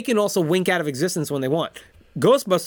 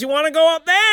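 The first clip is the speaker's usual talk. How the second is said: high, loud cartoon dialogue; hammed-up high shout; mock shouted question; 12 semitones higher, 6 dB louder than usual. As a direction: holler it up high to a fellow hero. Acted dialogue between space heroes.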